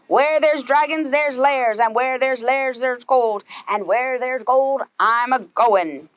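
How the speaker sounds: gruff hammed-up pirate, drawn out at the end; lightly voiced pirate captain, slowing on the last words. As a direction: growl it like a greedy sea captain. Pete's refrain.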